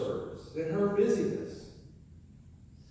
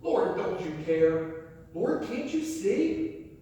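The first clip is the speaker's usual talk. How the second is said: whining plea; 5 dB louder than usual. Retold or imitated. Martha whining to Jesus about her sister. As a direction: beg the Lord like a put-upon sister. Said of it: "That's what she's doing".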